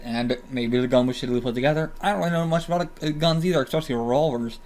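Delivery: talking through a swollen mouth; words slurred by swelling. Real, not acted. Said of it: "sorry I'm talking weird. Very swollen now".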